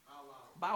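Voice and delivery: soft bow wow dog sound; a soft doggy bow wow. Shown as a demonstration. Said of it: "Woof or?".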